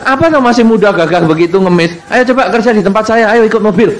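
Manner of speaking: brisk offer. Retold or imitated. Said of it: "kecuali Anda".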